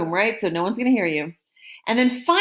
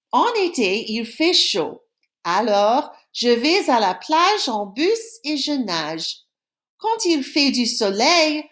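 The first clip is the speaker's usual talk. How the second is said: reading aloud; 2 semitones higher than usual. Shown as a demonstration. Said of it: "listen to me while I read the paragraph".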